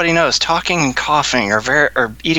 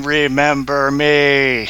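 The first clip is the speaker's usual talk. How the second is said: dragon statue voice; much slower than usual. Pretend. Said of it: "statue breathing fire and saying".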